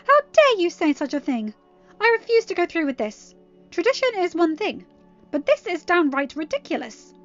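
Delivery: loud, high-pitched tirade; theatrical, outraged highborn mare; indignant outrage. Acted. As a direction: rail at the scandal, voice soaring. Outraged tirade after her shriek.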